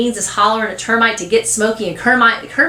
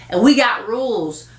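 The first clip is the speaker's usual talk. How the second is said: put-on slightly raised, self-important boy; authoritative; 4 semitones higher than usual. Boy telling cousin about gang rules, authoritative. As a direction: lay down the club rules. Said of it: "says with authority".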